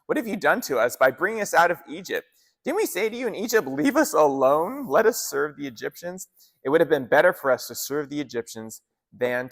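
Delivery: animated reading of a frightened protest; mildly terrified outcry. Acted. Frightened Israelites crying out to Moses in the desert, mildly terrified. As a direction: read it as a lively, lightly acted complaint. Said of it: "They were terrified and cried out to the Lord".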